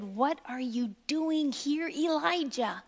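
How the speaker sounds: soft, hushed voice of God; low whisper. Acted. God softly questioning Elijah in the cave, hushed. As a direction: ask it gently, barely above a murmur. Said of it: "the sound of a low whisper".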